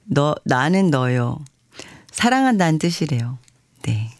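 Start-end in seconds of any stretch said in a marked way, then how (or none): 0.0-1.4 slow, lower Chungcheong drawl; Chungcheong dialect. Shown as a demonstration. DJ demonstrates a dialect love confession, slow Chungcheong drawl. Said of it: "충청도 사투리 중".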